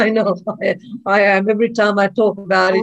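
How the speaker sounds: a teary laugh, admitting it; laughing through tears. Real, not acted. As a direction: laugh it off while emotional. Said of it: "you look like you're tearing up as well".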